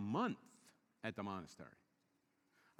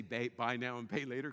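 knowing slogan; 6 semitones lower than usual. Retold or imitated. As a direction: say it like a knowing insider. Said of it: "That's why they say".

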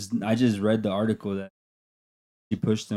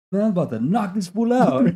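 retold fighting words; 9 semitones higher than usual. Tony ready to fight.

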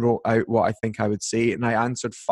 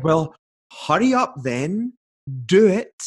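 impatient demand; 5 semitones higher than usual. Retold or imitated. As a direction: push them to get on with it. Impatient editor demanding a demo.

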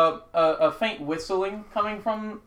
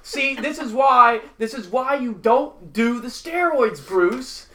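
higher goblin voice soothing a hurt friend; calming goblin; 7 semitones higher, 6 dB louder than usual. Acted. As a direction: talk a howling buddy down, goblin style. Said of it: "one of them up there, he's like".

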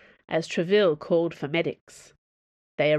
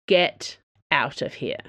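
growling; 3 semitones lower, slower than usual. Acted. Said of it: "Treville growled".

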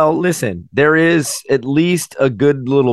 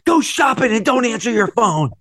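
mock romantic husband; 12 semitones higher than usual. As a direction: play the creepy sweet husband. Acting out husband's line.

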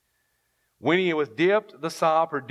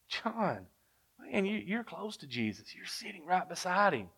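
hushed mock whisper; 3 semitones higher, 9 dB quieter than usual. Peter leaning over to John at the table, in a hushed mock whisper. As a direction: lean in close, hushed and confidential. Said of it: "Peter leans over to John and he whispers".

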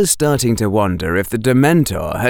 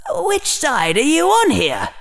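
higher-pitched indignant challenge. A narrator's reading. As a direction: demand it in offended disbelief. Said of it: "Harry thought indignantly".

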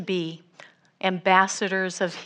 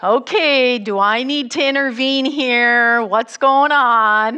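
louder, firm and protective; stepping in; 3 semitones higher, 6 dB louder than usual. Retold or imitated. John Joseph stepping in to protect his wife, firm loud challenge. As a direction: step in loudly to protect her.

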